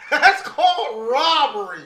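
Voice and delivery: mocking echo. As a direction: stretch it out to mock the co-host. Mockingly repeating co-host's robbery line.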